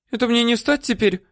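put-on high, whiny old-woman voice; woman whining denials at her captor; whimpering. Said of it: "хныкала баба".

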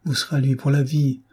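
insistent, with a touch of vehemence; mild vehemence. Acted. Maria contradicting her sister's gloom, mildly vehement. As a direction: press the point with understated vehemence. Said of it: "s'écria Maria avec véhémence".

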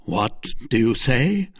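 a touch of outraged surprise; startled, half offended; mild indignant cry. Acted. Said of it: "cried Buckingham".

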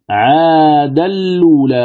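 "عادا الأولى" run together as 'aadal-luulaa; merged Warsh reading. Shown as a demonstration. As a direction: draw out "عادا الأولى" with a doubled lam and no hamza. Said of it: "تدغم اللام المضمومة".

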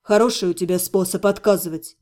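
low, bitter sarcasm. A narrator's reading. Necromancer doubting her refusals, bitter and low. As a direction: drop the pitch, mildly bitter. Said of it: "горько сказал некромант".

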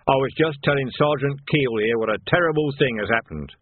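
a hint of oily deference; lightly voiced sergeant. Nock reports to the captain, lightly voiced sergeant.

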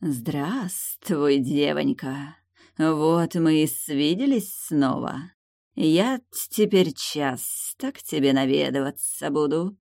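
slow, clicking, hissing demon voice; chittering insect creature. Acted. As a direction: hiss and click each word slowly. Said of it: "процокал, прошипел прямо ей в разум".

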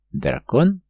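high drawn-out surprised question. Acted. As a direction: stretch it out, realizing. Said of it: "задумчиво протянул Марк". (протяжно, задумчиво)

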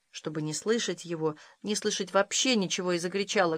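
plain reading voice

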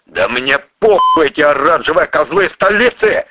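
loud, high, furious yell; yelling at the top of his lungs. Acted. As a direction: roar it out. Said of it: "во всю глотку заорал огнемёт".

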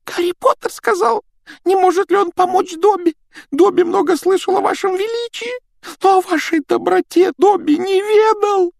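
a small timid house elf; christmas elf. Acted. Домовик Добби говорит. (писклявый голос эльфа)

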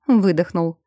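plain reading voice

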